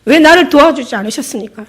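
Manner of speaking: angry reproach. Retold or imitated. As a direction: hurl the why at Jesus, voice rising. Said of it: "여자가 막 화를 내는 거예요".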